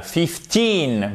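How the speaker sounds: put-on "Fifteen" said slowly as fif-TEEN, with the weight on TEEN; stress on second syllable. Shown as a demonstration. Teacher models "Fifteen" for French learners, stress on TEEN. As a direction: land on the TEEN of "Fifteen" with a falling tune. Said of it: "vous avez l'accent tonique sur la deuxième syllabe".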